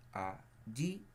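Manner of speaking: "allí" split in two, rising on the final "í"; stress on last syllable. Shown as a demonstration. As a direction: sound out "allí" syllable by syllable, leaning on "í". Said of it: "cargamos la voz en la última sílaba".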